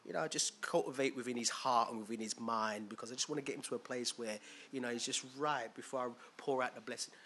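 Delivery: a lightly voiced God speaking calmly; hushed God voice. God answering Jesus about Patrick, softly. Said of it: "It's like".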